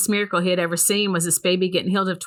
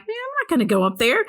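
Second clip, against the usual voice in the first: balking; 7 semitones higher, faster than usual. Retold or imitated. Retells balking at greeting the preacher.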